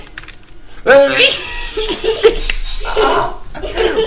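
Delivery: long high-pitched burst of laughter. Real, not acted. Player losing at last second, high burst of laughter.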